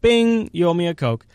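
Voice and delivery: jinx call. Real, not acted. Calls jinx on Chase.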